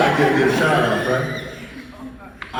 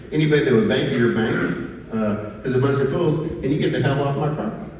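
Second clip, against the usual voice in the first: fake angry landowner. Pranking his hunting buddies, a mock-angry rant. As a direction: pretend the old man is furious at the banker. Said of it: "I'm gonna play a trick on these guys".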